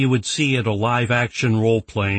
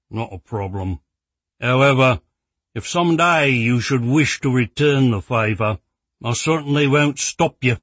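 dry, then a louder sly tease; sour shopkeeper; 3 semitones higher, 4 dB louder than usual. Acted. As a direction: sour reply turning cheeky. Rex replies sourly, then winks.

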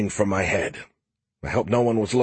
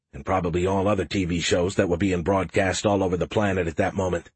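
Skippy voice. Acted. Skippy lounging banter.

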